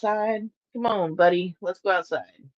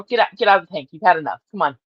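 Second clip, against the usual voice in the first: ordinary delivery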